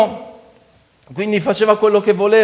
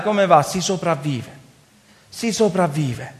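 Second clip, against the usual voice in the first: reflective preaching; 2 semitones lower than usual. Real, not acted. Preacher telling brothers of Gideon merely surviving, reflective preaching. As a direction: bring it down to a sober, confiding register.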